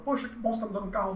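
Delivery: a hint of a delighted wife; mock grateful wife. Teacher voicing the wife thanking for the car, mock pleased.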